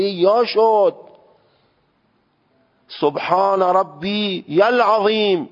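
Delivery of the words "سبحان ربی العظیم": ربی slow, with an overlong doubled ی; wrong doubled yā. Shown as a demonstration. Teacher demonstrating the mistaken doubled reading. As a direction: drag out ربی العظیم the wrong way. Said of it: "غلطه".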